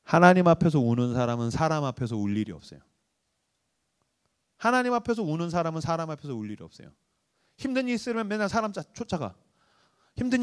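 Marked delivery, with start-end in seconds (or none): 0.0-2.8 sincere quote. Acted. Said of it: "제가 붙들고 있는 문구가 있어요". 4.6-6.9 soft repeat. Acted. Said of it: "제가 붙들고 있는 문구가 있어요".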